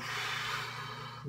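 long unvoiced exhale through the lips; forceful breath out. Shown as a demonstration. Showing viewers how to exhale on the lift, a long blown-out breath. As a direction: blow the air out hard like on a lift. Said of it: "you really wanna blow out when you're coming up".

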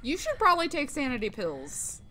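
laughing, mocking replay. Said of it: "I told you to do that before!".

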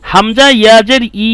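final ই held long; lengthened vowel. Shown as a demonstration. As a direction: stretch the last ই into a long, steady vowel. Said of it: "একটু লম্বা করে পড়েছি".

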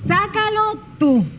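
bossy demand. Shown as a demonstration. Hashtag said as demand.

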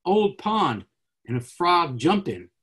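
haiku read aloud, a pause between images; poem reading. Shown as a demonstration. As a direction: set the pond first, then the frog. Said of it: "So I'll read a few".

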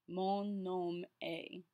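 Mon nom est drawn out slowly, est like the letter A; slow French demo, est rhyming with "day"; pronunciation model. Shown as a demonstration. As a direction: stretch each word of Mon nom est, est as "ay". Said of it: "E S T is pronounced A".

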